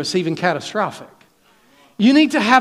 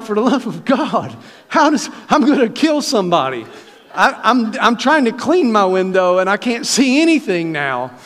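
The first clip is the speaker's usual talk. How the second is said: exasperated driver; 2 semitones higher than usual. Retold or imitated. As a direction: act out comic driver frustration. Acted exasperation at a fogged windshield.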